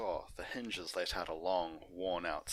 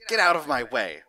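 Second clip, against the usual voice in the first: much louder, higher rude shout; angry shout; 6 semitones higher, 16 dB louder than usual. Acted. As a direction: bark at him to move. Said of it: "greeted with shouts of".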